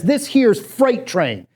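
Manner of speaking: lightly voiced street tough, drawn out; tough guy. Player introducing his street basketball team, mock tough. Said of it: "to really look tough".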